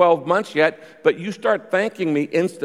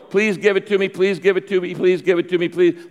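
higher, repetitive pretend pleading; mock begging; 4 semitones higher than usual. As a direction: lightly imitate someone begging over and over. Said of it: "like you're begging God".

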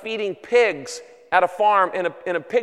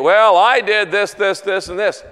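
bragging; 6 dB louder than usual. Acted. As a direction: show off every good deed you did. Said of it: "Everybody up there would be bragging".

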